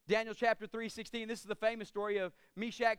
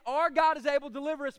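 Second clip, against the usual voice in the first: louder on "Our God is able", then "but if he doesn't" dropped like a hedge; doubtful misreading; 2 semitones higher, 5 dB louder, faster than usual. Shown as a demonstration. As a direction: read it as if you doubt God will come through. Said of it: "We read it".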